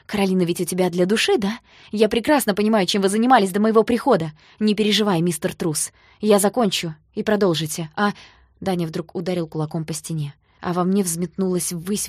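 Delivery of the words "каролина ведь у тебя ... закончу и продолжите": loud, cutting reproach; angry accusation. Acted. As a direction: throw the accusation at him. Heroine confronts Danya, accusing.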